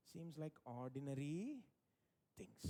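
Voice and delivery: low, slow deflated drop; acted underwhelmed disappointment; mock letdown. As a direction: let all the air out of it. Voices the congregation's letdown.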